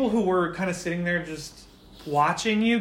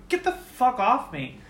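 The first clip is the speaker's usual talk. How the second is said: angry snap; 7 semitones higher than usual. Acted. Yuki breaks from Shion's grip.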